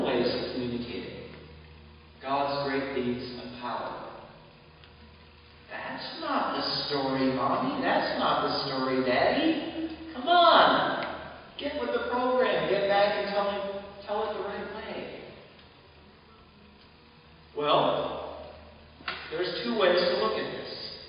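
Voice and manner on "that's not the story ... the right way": mock petulant child, pitch jumping up on come on; a pretend child's protest, mildly hammed up; whiny protesting congregant. Preacher voicing churchgoers who demand the familiar story, in a mock whine.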